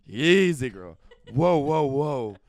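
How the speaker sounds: hammed-up whoa to a horse; soothing a horse. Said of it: "BTS clip of the funniest video".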